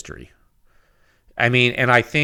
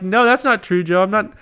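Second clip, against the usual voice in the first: high, louder defensive whine; mock denial; 9 semitones higher, 4 dB louder than usual. Reviewer retells denying to Joe, high mock protest. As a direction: protest too much, playfully. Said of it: "I'm like".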